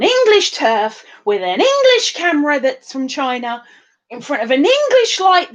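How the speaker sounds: English punched high each time; mock-proud emphasis on English; stress on English. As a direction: hit the word English with a pitch leap. Mainly do my southern accent.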